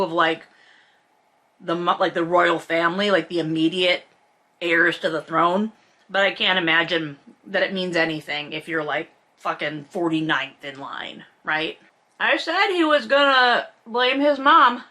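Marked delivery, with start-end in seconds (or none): none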